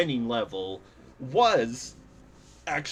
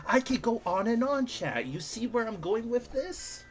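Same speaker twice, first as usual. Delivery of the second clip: breathless after a long rant; winded, running out of air; out of breath; 9 semitones higher than usual. Real, not acted. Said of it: "Ugh, I'm out of breath".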